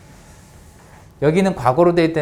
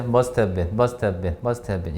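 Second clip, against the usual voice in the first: must have been run together quickly, lower voice; quick linked reading; 5 semitones lower, much slower than usual. Shown as a demonstration. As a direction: read "must have been" fast, as one chunk. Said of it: "조금 빠르게 읽어보세요". (빠르게 이어 읽기)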